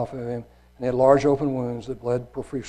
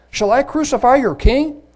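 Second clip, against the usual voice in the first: much higher, louder incredulous question; Pilate pleading; 11 semitones higher, 7 dB louder than usual. Acted. Pilate asking the shouting crowd, high incredulous question. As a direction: ask it in disbelief over the crowd.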